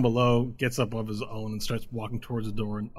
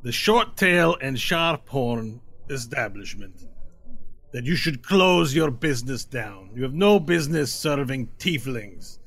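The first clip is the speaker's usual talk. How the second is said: menacing lead tiefling; 3 semitones higher, 4 dB louder, slower than usual. Acted. Lead tiefling threatening the lizard bartender. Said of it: "he goes".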